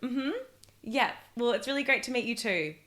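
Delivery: lightly voiced, forced polite small talk; uncomfortable girl backstage. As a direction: play a girl humoring a comic she wants to escape, only a hint of a put-on voice. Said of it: "that's my impression of a girl backstage".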